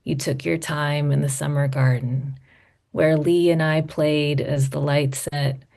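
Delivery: measured literary reading with lingering line ends; poetry reading. Acted. Poet reads audience her letter to Dad, measured poetry reading. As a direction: read it as a letter poem, phrase by careful phrase.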